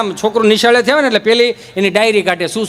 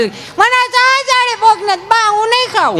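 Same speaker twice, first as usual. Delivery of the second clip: put-on high, slow sulky child voice; child refusing grandma's curry, high and sulky; whiny child; 12 semitones higher, slower than usual. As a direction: drag it out like a fussy kid.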